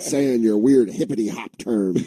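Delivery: high, exasperated father rant; ranting Tom Hanks. Retold or imitated. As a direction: snap at the son like a fed-up dad. Tom Hanks yelling at son.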